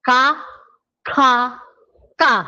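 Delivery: three Korean k sounds in a row; plain, aspirated and tense k. Shown as a demonstration. Teacher drilling Korean consonants, three k sounds. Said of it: "Walang pinagkaiba".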